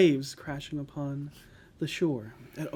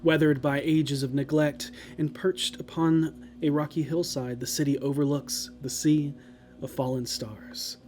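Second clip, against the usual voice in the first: solemn descriptive narration; story narration. Acted. Game master's scene setting.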